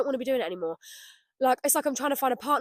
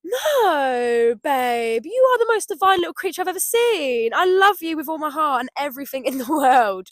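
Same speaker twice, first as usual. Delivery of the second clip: loving reassurance; 3 semitones higher, 6 dB louder than usual. Pretend. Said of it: "answers herself lovingly".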